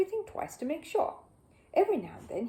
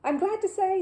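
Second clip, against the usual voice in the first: higher, louder brisk voice; brisk housekeeper; 11 semitones higher, 7 dB louder than usual. Acted. Missus Bird heading off Paddington's help, brisk and raised. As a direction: put a firm lid on it.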